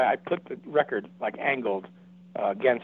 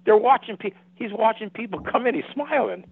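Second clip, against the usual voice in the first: insistent excitement; 9 semitones higher, 4 dB louder than usual. Retold or imitated. Friend insists ghosts are watching.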